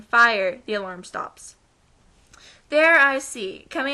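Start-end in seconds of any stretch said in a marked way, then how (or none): 0.0-0.6 retold scream. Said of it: "burst out of the elevator screaming".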